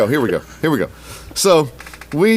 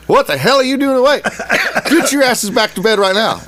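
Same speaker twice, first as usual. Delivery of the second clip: stern dad scolding; 9 semitones higher than usual. Retold or imitated. Dad catches his boys awake at night, mock angry shout. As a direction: re-enact an angry dad ordering kids to bed. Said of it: "very much go back to my childhood".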